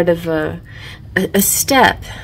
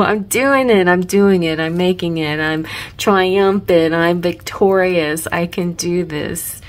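triumphant; 4 dB louder than usual. Pretend. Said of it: "see yourself as achieving".

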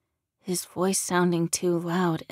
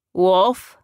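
questioning; 8 dB louder than usual. A narrator's reading. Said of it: "Larry asked".

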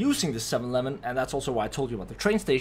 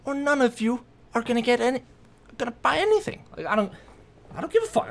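retold ultimatum; 9 semitones higher, faster than usual. Acted ultimatum to her friends.

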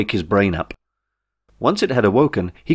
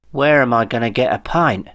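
dead serious; 3 semitones higher than usual. Acted. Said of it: "asked Jeff in uber seriousness".

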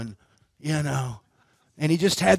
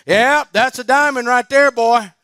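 hogan voice; 6 semitones higher, 4 dB louder than usual. Retold or imitated.

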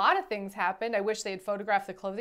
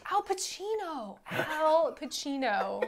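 mock Italian name; 5 semitones higher, slower than usual. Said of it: "the actor, not Al Pacino, a character".

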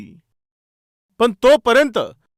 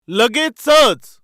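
"लगेचच" stretched very slowly and said louder; emphatic answer; 4 dB louder, much slower than usual. Acted. Preacher answering the congregation, drawn-out emphatic "लगेचच". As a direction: drag the word out to hammer it home.

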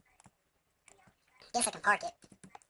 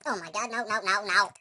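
building into loud repeated no's; dismayed outburst; 7 dB louder than usual. Real, not acted. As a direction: cry no louder and louder. Disaster in game.

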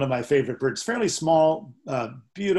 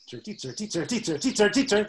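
getting louder and louder; 6 semitones higher than usual. Retold or imitated. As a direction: begin hushed, build to a loud call. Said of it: "Notice how it gets louder and louder".

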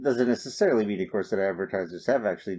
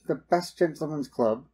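skeptical; 6 semitones higher than usual. Retold or imitated. Skeptical reaction to the slogan.

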